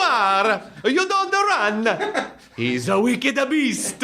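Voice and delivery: very high, shrill mock scolding; scolding teacher. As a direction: shriek at the boy like a schoolmarm.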